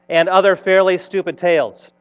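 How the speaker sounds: Stupid stressed as the key word; emphasis on Stupid. Shown as a demonstration. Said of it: "emphasis on the word stupid".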